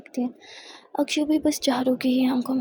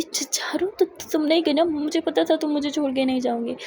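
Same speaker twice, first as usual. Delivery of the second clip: tearful; 3 semitones higher than usual. Acted. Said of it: "बहुत ज़्यादा रो रही थी".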